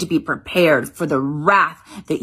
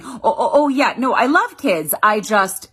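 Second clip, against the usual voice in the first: higher, flustered, laughing over the excuse; nervous fake laugh; 5 semitones higher than usual. Woman mimicking herself justifying not wanting kids, nervous laugh. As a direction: laugh it off awkwardly.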